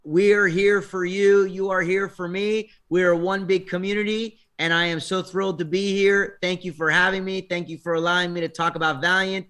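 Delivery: slow, grand blessing voice; inner sensei voice. Pretend. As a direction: bestow wisdom like a sage. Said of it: "channel your inner sensei for me".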